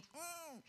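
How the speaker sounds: high pouty hum; imitating a sulky child's protest; mock tantrum noise. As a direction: whine a closed-mouth "mm". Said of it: "What you do is you stomp your foot".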